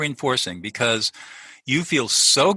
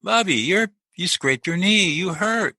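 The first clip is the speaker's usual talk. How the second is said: put-on high, gentle comforting voice for a small child; tender parent calming a child with a scraped knee; soothing parent; 8 semitones higher, slower than usual. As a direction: coo it to a hurt toddler. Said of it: "say something like".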